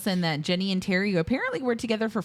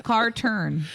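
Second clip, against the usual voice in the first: slow, higher, punchy telegram-style delivery; mock simpleton note-reading; 3 semitones higher, 3 dB louder than usual. Podcaster imagining her notes on a car chase film, mock simpleton. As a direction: announce each tiny note like a caveman.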